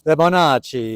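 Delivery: Fibonacci as fe-ba-NAH-chee, a mock Italian accent. Shown as a demonstration. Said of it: "can you do your best Italian accent".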